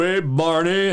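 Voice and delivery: hammed-up cartoon impression; bad Fred Flintstone. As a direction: do a poor cartoon husband calling his pal. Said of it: "the worst Fred Flintstone I've ever".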